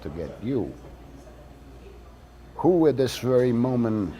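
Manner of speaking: conspiratorial letter. Acted. Writer warns the mail reader, loud mock-confiding. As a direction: sow doubt like a trusted ally. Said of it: "So I wrote again".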